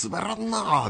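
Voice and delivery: soft drawn-out mock of a flat quip; softly ape the awkward line; mock deadpan quote. Host retelling the izakaya guy's line, soft mock deadpan. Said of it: "って言いましたからね".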